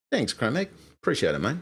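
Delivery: Aussie accent with a high-starting thanks; Australian accent. Shown as a demonstration. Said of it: "this is my attempt at an Australian accent".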